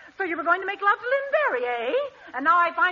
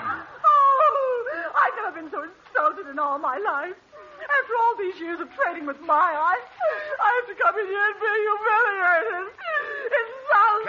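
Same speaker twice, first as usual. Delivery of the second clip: mock outrage; 3 semitones higher than usual. Customer wails she is insulted.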